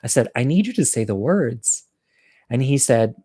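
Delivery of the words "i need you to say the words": gentler request at an easy pace; mildly kind, everyday-volume plea; trying to be nice. Retold or imitated. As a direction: ask it nicely, without drawing it out. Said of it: "I tried really hard to say it nice".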